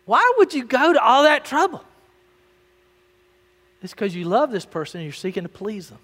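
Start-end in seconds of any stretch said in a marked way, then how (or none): 0.0-1.8 loud, high-pitched rhetorical question; preacher driving the question home; emphatic repeat. Real, not acted. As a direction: belt the question out to the whole room. Same question repeated forcefully.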